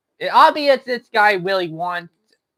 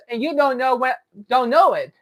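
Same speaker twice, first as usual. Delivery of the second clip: usual speaking voice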